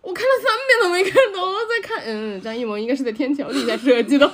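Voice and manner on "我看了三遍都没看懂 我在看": laughing. Real, not acted. Laughing retelling of signature.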